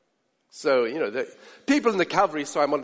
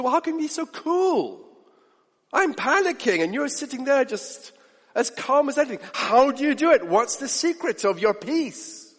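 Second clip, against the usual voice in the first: panicky worker; 4 semitones higher than usual. Retold or imitated.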